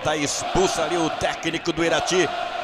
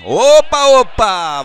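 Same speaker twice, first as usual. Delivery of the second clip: surprised; 3 semitones higher, 9 dB louder, slower than usual. Real, not acted. Sudden foul.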